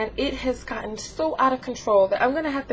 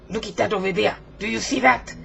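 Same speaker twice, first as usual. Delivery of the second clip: lightly voiced demanding character, French-tinged; bossy Frenchie voice. Frenchie pointing out a man, demanding voice. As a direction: play a pushy little Frenchie. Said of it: "like, a little French accent".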